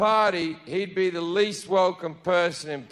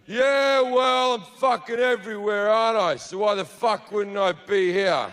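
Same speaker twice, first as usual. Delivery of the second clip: indignant God. Acted. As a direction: act an affronted God, pushing back at the guests. God retorts to awkward party guests.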